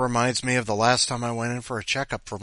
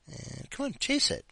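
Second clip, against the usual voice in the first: coaxing the cat. Real, not acted. Urging the cat to play.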